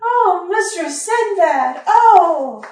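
breathless, high, swooning gasp; mock-swoon over a hero; swooning lady. Swooning reply to rogue boast.

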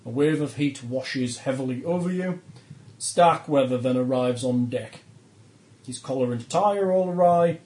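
measured game master narration; scene-setting narration. A narrator's reading. Game master describing the burning dock to players, narrating. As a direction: read out the disaster like a storyteller.

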